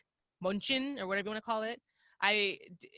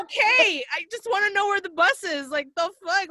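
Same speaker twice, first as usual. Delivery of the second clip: exasperated; 9 semitones higher, 4 dB louder than usual. Retold or imitated. Retold reply to yelling Germans.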